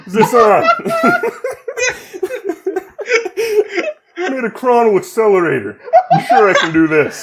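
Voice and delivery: Obama-tinged Winston voice; Winston impression. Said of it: "I went very Barack Obama".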